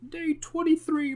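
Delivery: high, slow cartoon crab voice; Mister Krabs impression. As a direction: drag out the day count like a cartoon crab. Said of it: "Mister Krabs like".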